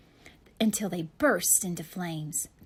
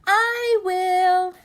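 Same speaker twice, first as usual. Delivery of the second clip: high, loud little dragon voice; eager declaration; 10 semitones higher, 10 dB louder than usual. Acted. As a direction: shout it out proudly. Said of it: "declared Crispin".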